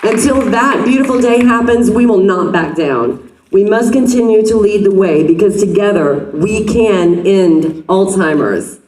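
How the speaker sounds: rally the crowd to cheer; rally speech. Real, not acted. Leading crowd at charity walk.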